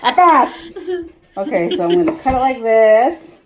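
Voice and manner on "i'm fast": laughing as she says it. Real, not acted. Cutting potatoes for her daughter, laughing. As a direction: laugh through a proud little boast.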